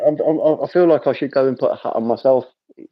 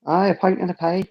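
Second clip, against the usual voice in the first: higher-pitched mock Glaswegian lilt; Glaswegian accent; 5 semitones higher than usual. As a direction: put on a playful Glasgow accent. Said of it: "put on a Glaswegian accent".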